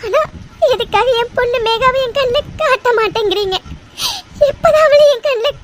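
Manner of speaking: pleading with God through tears, voice breaking; tearful prayer. Acted. Mother begs God at temple for her daughter, tearful. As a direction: choke up as you beg the god.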